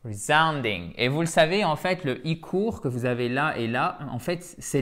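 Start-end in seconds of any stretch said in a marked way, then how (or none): 0.0-0.9 resounding with the second syllable, -SOUND-, stressed; short re-, strong "sound" in "resounding". Shown as a demonstration. Teacher showing the tonic accent, resounding stressed on sound. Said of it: "Accent tonique ici".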